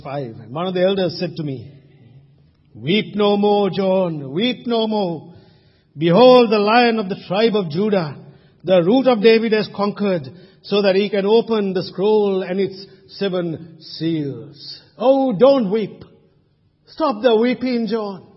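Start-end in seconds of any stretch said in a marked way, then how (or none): 2.7-14.8 louder, ringing comfort from an elder; elder's loud proclamation. Acted. 15.0-18.2 louder, urgent plea to stop crying; encouraging elder. Pretend. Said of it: "Let me be an encouraging elder".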